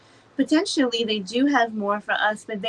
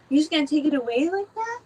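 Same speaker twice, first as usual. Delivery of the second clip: high, fast indignant complaint; incredulous, higher and quicker; mock outrage; 6 semitones higher, faster than usual. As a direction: whine it out like you've been robbed. Acting out complaint to divine.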